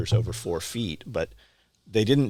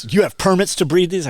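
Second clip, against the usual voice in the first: mock shrill official; 9 semitones higher, 8 dB louder than usual. Zoning lady challenging him.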